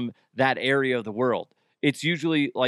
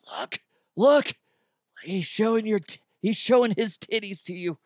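excited; 7 semitones higher than usual. Retold or imitated. Playful report to neighbor Jeff.

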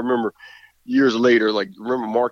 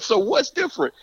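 imitating Prime; 11 semitones higher than usual. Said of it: "So he said".

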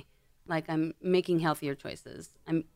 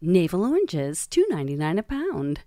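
announcer voice; 4 dB louder than usual. Shown as a demonstration. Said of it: "where I'd go".

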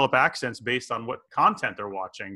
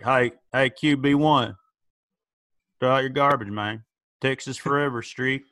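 Tim Riggins. Retold or imitated. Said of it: "I'm turning into Tim Riggins".

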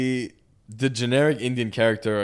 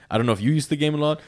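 same question pitched up and brighter; higher repeat; 5 semitones higher, faster than usual. Real, not acted. Repeating the question to friends, pitched higher. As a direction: ask again, lifting the pitch.

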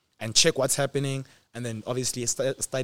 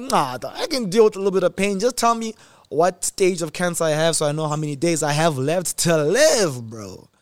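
mock bravado; 4 semitones higher, 5 dB louder than usual. Bravado reply to the doctors.

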